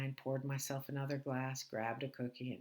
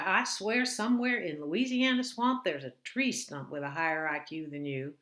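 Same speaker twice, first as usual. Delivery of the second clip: scornful mother; 3 semitones higher, 7 dB louder than usual. Retold or imitated. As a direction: sneer it like a cruel mother. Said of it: "followed by".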